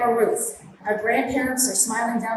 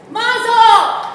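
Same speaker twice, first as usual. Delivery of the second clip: cheer; 11 semitones higher, 8 dB louder than usual. Real, not acted. Toast cheer to the couple.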